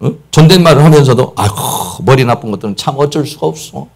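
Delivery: understated insulting rant; contemptuous scolding. Retold or imitated. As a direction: belittle them half in jest. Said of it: "이렇게 말한다든지".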